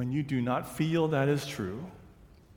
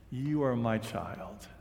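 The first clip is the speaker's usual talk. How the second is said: tender; 2 semitones lower, 3 dB quieter than usual. Acted. God's words at sermon's hushed close.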